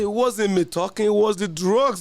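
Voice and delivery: to the host, voicing the friend's excuse, laughing. Cracking up at the excuse.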